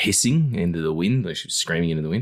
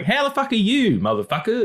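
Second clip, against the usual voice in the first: much higher, brash mock greeting; hammed-up swearing hello; imitating the co-host's rude greeting; crude co-host. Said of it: "then you're like".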